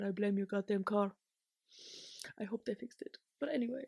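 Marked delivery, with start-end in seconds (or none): 2.4-3.2 soft unvoiced whisper; hushed hopeful aside. Real, not acted. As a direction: whisper it like a wish. Whispered hope about car.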